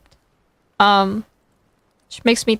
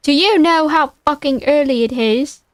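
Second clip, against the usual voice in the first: irritated British phone answer, slightly overdone; British accent; 2 semitones higher than usual. Acted. Louis answering an early call from Brock, irritated British accent. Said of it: "he has a British accent".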